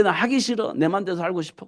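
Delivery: mildly whiny refusal; reluctant protest. Acted. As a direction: act out a balking believer. Acts out a reluctant believer's protest.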